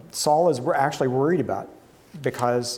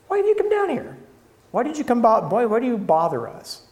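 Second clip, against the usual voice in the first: pitched-up, indignant demands, raised a notch; angry older brother; 9 semitones higher than usual. Acted. Eliab scolding his younger brother David, indignant and raised. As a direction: scold him like a fed-up big brother. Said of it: "Eliab's anger was aroused against David".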